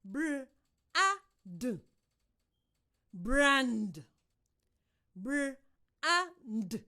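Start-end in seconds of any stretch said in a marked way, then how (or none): 3.1-4.0 Brand said loud and firm as one blended word; emphatic blend. Shown as a demonstration. Teacher modelling a blend: loud, firm Brand. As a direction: punch out Brand after the sounds. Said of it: "first you listen".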